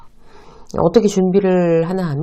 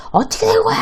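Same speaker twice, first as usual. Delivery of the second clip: boss yelling. Retold or imitated. 화난 본부장이 직원에게 소리치듯 따지는 목소리. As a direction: yell like a furious boss. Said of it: "소리소리 지르면서".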